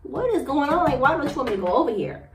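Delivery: high, loud suspicious demand; confronting. Retold or imitated. Woman confronting boyfriend over the bed, high loud accusation. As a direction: demand to know who is hiding there. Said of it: "And so I'm like".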